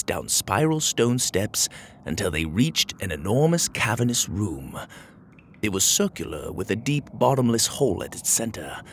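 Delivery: measured, descriptive storybook narrator; story narration. A narrator's reading. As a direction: paint the dungeon for young listeners.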